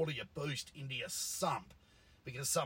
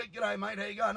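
put-on higher, louder Italian-accented hello; cheery Italian greeting; 8 semitones higher, 7 dB louder than usual. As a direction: greet like a happy Italian mechanic. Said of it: "if he was happy to see you".

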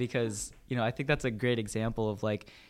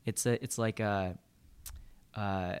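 groping for the words; trailing off, searching memory; blanking on lines. Real, not acted. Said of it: "man, I'm blanking".

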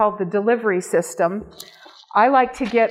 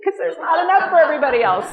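playful mock greed; 7 semitones higher, 4 dB louder, faster than usual. Retells what she told friend.

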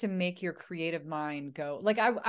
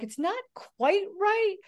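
dubbed voice; 6 dB louder than usual. Retold or imitated. Mimics awkward dubbed English.

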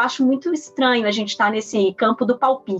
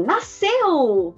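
doctor announcing; 4 semitones higher than usual. Retold or imitated. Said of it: "virou e falou assim".

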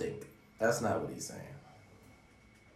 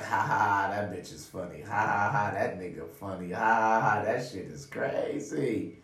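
hammed-up ha-ha between words; mock laughing. Laughing off a friend's joke, mock chuckle. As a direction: fake a chuckle to yourself. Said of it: "laugh to yourself like".

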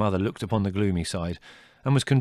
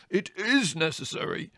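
higher, insistent shout; 9 semitones higher than usual. Acted. Brother to Mother, shouting back about swearing. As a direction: hit IS hard. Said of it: "shouted Leslie".

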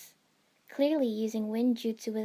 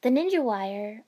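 blurted; 7 dB louder than usual. Acted. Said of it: "I blurted out".

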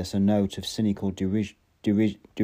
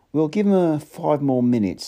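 Helmholtz voice; 6 semitones higher, 5 dB louder than usual. A narrator's reading. Helmholtz impatient.

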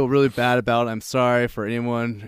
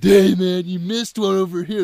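raised, higher-pitched call; buddy calling out; 6 semitones higher, 4 dB louder than usual. Retold or imitated. Buddy calling to the tire stabber, mock helpful shout. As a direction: imitate a pal pointing out a missed target.

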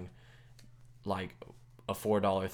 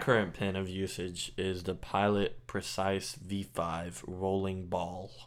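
reading out; slower than usual. Shown as a demonstration. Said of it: "do you wanna read it?".

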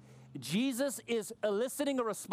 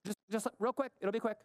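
lightly voiced, higher-pitched tentative request; imitated polite pestering; 4 semitones higher, faster than usual. Relative asking for a quick word, lightly imitated hesitant plea. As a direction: ask for a moment, hesitant and a touch high. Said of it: "like that kind".

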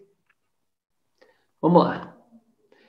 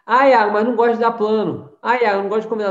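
raised voice mocking a lazy excuse; mock whiny excuse; 3 semitones higher, 5 dB louder, faster than usual. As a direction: mimic the complainer, a bit louder. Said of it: "excuse of a reluctant listener". (imitando a desculpa do aluno preguiçoso)

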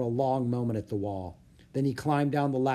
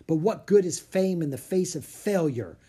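raised, anguished cry of a failed artist; mild shout; 5 semitones higher, 4 dB louder than usual. Acted. Leonardo despairing over his ruined fresco, a mild shout. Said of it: "shouted Leonardo".

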